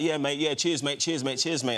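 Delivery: lightly mimicked English accent; casual, matey attempt at English accent; retold line in a hint of English accent; imitated English accent. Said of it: "he came to me in English accent".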